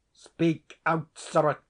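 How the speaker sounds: angry command. A narrator's reading. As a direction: demand an answer from the silent tenant. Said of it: "which he had when he was angry".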